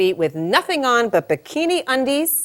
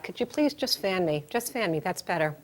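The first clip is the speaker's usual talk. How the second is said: weary soft request; 6 dB quieter than usual. Acted. Overheated woman asks husband.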